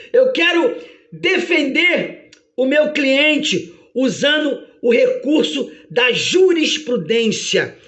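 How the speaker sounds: slow, emphatic defence lawyer, lightly acted; a hint of a grand courtroom advocate; Jesus. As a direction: declare the defence with deliberate weight. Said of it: "e ele diz".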